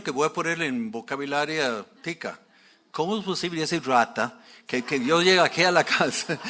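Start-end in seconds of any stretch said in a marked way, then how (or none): 2.9-6.4 a touch of indignant anger, building louder; indignant, rising into a louder complaint; furious general. Retold or imitated. Proud general insulted at the prophet's door, mild anger. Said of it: "me imagino que está todo fúrico".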